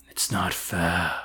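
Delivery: very soft, slow and low-key; hushed near-whisper. Acted. Mister Baggins to Sam in the cage, hushed. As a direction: say it slowly under your breath. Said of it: "Mister Baggins whispered".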